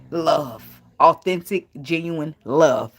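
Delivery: slowed, lingering on love, seductive; sexy voice. Shown as a demonstration. Teasing the ladies with a seductive slow read. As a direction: savour each word to tempt the ladies. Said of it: "Sounding sexy, ain't it, ladies?".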